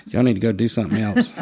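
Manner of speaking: said through a laugh. Real, not acted. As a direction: tease them while laughing. Laughing jab at bad officers.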